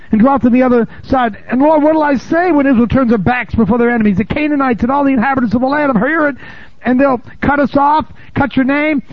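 high, lifted preaching read; preacher voicing Joshua's desperate plea to God; dramatic scripture reading. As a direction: declaim the prayer with fervour.

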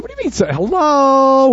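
high-pitched incredulous questioning; mock incredulous disciples. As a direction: act out baffled disciples, pitch jumping up. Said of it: "And the disciples said".

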